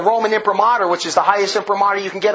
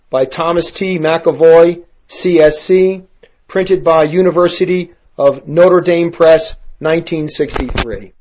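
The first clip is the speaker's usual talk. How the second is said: loud, lower and deliberate, reading out the full title; emphatic announcement; 6 semitones lower, 5 dB louder than usual. Real, not acted. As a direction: proclaim the book's title loudly like an announcement.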